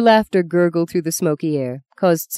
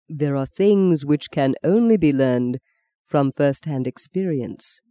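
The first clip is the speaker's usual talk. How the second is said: said softly; slower than usual. Acted. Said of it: "he said softly".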